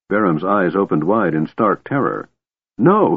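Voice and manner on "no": a high, frightened little no; frightened whimper. Acted. Beram shrinking from Tanis, a frightened whimper. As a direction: recoil and whimper it. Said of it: "he whimpered".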